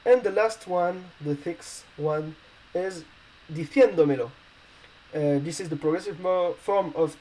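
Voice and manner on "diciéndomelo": "diciéndomelo" with stress on the E, di-CIÉN-do-me-lo; Spanish word demo. Shown as a demonstration. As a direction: say "diciéndomelo" in Spanish, leaning on the accented É. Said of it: "we want the E to be, um, stressed".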